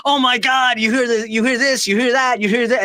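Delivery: high-pitched breathless excitement; squealing over-the-top excitement; excited texting. Retold or imitated. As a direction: gush like you just found a bombshell. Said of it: "when me and Robin are texting back and forth a thousand miles an hour".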